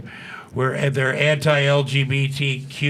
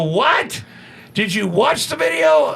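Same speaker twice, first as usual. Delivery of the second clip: retold outrage; 11 semitones higher, slower than usual. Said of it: "I go".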